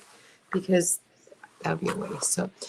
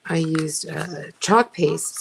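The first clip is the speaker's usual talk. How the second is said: chewing gum; slower than usual. Real, not acted. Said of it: "talk and chew gum at the same time".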